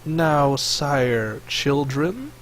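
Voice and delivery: lightly voiced snake creature, slow questioning; Snake Face. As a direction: draw the question out slowly in light character.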